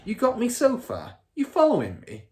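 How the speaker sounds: put-on a smug car dealer bragging to his kid; Mr Wormwood's voice. A narrator's reading. Father character voice.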